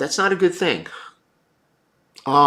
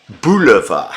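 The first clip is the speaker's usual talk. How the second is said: louder, breaking into a laugh on "Bulova"; laughing shout; 6 dB louder than usual. Real, not acted. Streamer cracking up at a viewer's comment, laughing shout.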